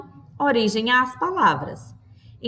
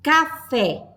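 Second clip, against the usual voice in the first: syllable-by-syllable demo; 4 semitones higher than usual. Shown as a demonstration. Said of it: "duas aberturas de boca para a pronúncia".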